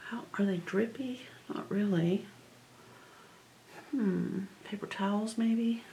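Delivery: soft whisper to herself. Real, not acted. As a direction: whisper the thought quietly. Whispered musing while crafting.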